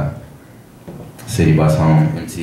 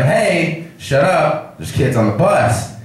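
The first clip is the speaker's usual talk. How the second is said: higher-pitched mild scolding; a touch of anger, pitched up; mock angry passenger; 8 semitones higher, slower than usual. Front passenger telling off the crazy lady, mildly angry. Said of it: "she starts to get angry at her".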